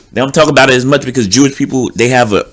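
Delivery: talking with food in mouth; words round a mouthful; mouth full. Real, not acted. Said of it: "I had something in my mouth".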